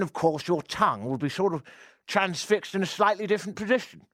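lightly done upper-class English accent, out of the side of the mouth; posh English accent. Shown as a demonstration. Radio host demonstrating a posh English accent to listeners. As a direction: talk like a toff with marshmallows in your mouth. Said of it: "I can do the accent sometimes if I need to".

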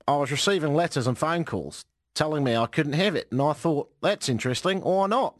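lightly put-on Australian accent; mild Australian accent. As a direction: quote him as a mock Australian. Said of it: "I do a good Australian accent".

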